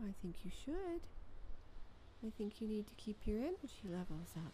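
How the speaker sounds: soft whisper to the bird. Real, not acted. Owner whispering to her bird to eat. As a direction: whisper the advice gently.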